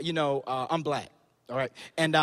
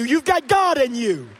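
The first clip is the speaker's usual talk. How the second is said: preached refrain; 3 semitones higher, 3 dB louder than usual. Acted.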